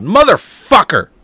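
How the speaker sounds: loud slow curse at the game; furious shout. Real, not acted. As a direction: bellow the curse, drawn out. Ranting about lost hockey game.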